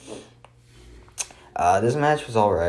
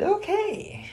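mock indifference; much slower than usual. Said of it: "And I said".

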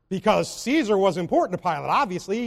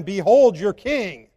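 slow, louder, earnest presentation of a king; slow sincere announcement, louder; sincere proclamation; 6 dB louder, slower than usual. Pretend. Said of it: "if he was believing now".

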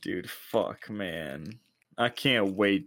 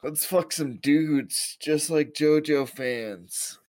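silly put-on voice; 7 semitones higher, slower than usual. Put-on voice joke.

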